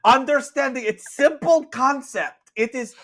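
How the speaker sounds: high, loud exasperated nun; nun yelling. Acted. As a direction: berate the customer in broken English. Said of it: "this nun just absolutely yell".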